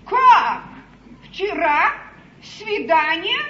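stunned, firing questions; shocked questions. Acted. Королева поражена известием. (потрясённо, с недоверием)

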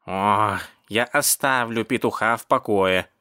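unconcerned, unhurried reply; indifferent tone. Acted. Cat gives up on the rooster, indifferent. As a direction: brush it off with no interest. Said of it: "сказал кот равнодушным тоном".

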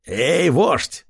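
pig voice hollering up; calling out. Acted. Pig spearman calls the chief, hollering. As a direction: shout up at the chief. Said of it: "выкрикнул один из свиней".

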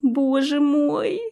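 drawn-out slow groan of despair. A narrator's reading. Countess groaning at the portal, despairing moan. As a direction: moan it out, dragged and high. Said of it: "простонала графиня".

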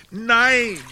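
a sudden high, loud "Nein!"; outraged cry. Acted. Knight cries out at the backoven tale, outraged.

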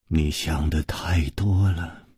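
low, soft, restrained answer; subdued reply. Acted. Woman calming her jealous lover's suspicions, subdued.

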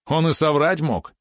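high, drawn-out yappy retort; Валерон yapping. A narrator's reading. Small companion casting doubt on the brother's claim, yapping. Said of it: "тявкнул Валерон".

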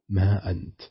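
usual speaking voice

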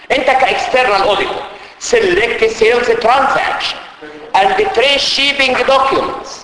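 slow, careful English read; reading the question aloud. Acted. Teacher to students reading the exam question, slow. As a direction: read each word out for the class.

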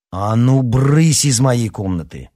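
loud, drawn-out order to leave; annoyed shout. A narrator's reading. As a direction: shoo a pest away loudly. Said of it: "крикнул Никита".

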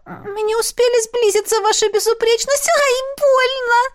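high, pained pleading cry. Acted. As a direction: beg him to let go, it hurts. Concubine hurt by emperor.

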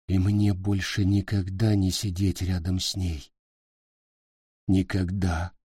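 soft, low whisper of grief. A narrator's reading. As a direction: barely breathe the words out. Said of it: "прошептал так тихо".

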